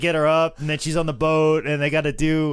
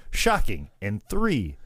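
1 robotic machine voice; 5 semitones lower, slower than usual. Retold or imitated. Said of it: "the machine says".

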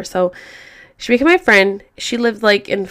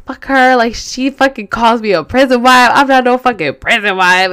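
mock-mad rant, a bit raised; retold anger; 3 semitones higher, 4 dB louder than usual. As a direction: imitate a friend fuming in protest. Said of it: "she was so mad".

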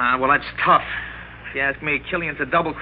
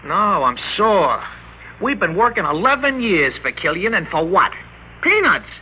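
sore; 5 semitones higher than usual. Acted. Jack bitter about boss.

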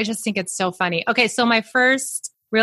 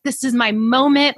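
mild re-enacted excitement, pitch lifted; excited; 5 semitones higher than usual. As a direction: play up a little thrill at your big break. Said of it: "so excited".

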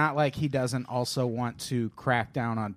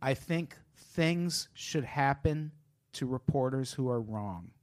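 slow quoted Trump line; 7 dB quieter, slower than usual. Retold or imitated. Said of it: "his quote is".

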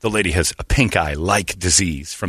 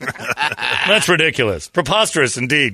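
mock offended; 4 semitones higher, slower than usual.

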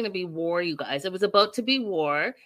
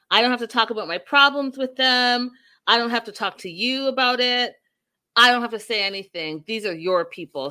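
raised, insistent mock-angry protest; retold super pissed; 2 semitones higher, 5 dB louder than usual. Retelling a mother refusing to talk before strangers, mock pissed. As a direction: act out an indignant refusal, hitting each clause. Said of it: "Super pissed".

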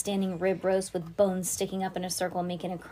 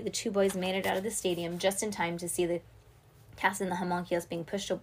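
ordinary delivery

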